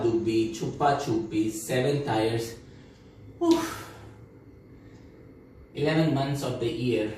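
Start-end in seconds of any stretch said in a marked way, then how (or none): 3.4-3.9 high puffed oof; exhaling oof. Acted. Recalling all the games, exhaling oof. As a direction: puff out an oof. Winded after listing childhood games.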